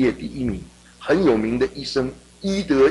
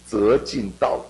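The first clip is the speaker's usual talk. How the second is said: recited proverb; much slower than usual. Shown as a demonstration. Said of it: "中国人有一句话说".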